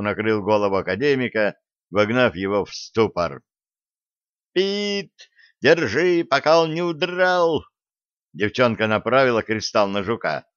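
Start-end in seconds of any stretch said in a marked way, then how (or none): 4.5-7.6 high, urgent call to catch it; high-pitched cry of alarm, not shouted. Acted. Alisa urgently calls Pit to catch.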